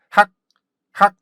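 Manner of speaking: 학 cut off abruptly; a quick punched 학, stopped dead; short stopped syllable. Shown as a demonstration. Teacher stresses keeping it short, abrupt 학. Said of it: "이게 짧게 되는 게 중요해요".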